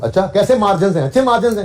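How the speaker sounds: mild mock small talk, voice going up; casual chat. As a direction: play a friend casually asking about business. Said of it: "मैं और ये भाई बात कर रहे हो".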